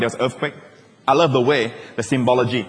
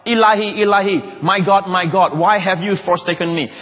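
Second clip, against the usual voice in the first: mildly raised, higher quoted cry; lightly acted cry to God; imitated crying out; 4 semitones higher than usual. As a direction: call it out as a retold plea from the cross. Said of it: "After he cried out".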